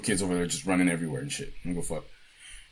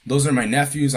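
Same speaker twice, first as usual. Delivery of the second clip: higher-pitched imitation of a frantic woman; retold freaking out; 4 semitones higher than usual. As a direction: protest in a mildly panicked mock voice. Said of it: "she's, like, freaking out".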